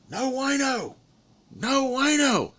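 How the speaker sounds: imitating a Spanish-speaking ranch worker's broken English; mock Spanish accent. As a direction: squeak it out high and insistent. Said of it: "and he says".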